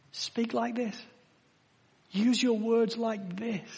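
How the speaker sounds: soft, slow encouragement; quiet, gentle contrast to the warning; gentle instruction. Acted. Contrast: good speech instruction.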